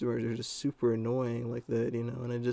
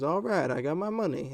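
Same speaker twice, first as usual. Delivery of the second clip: imitated kid; 5 semitones higher than usual. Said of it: "he goes".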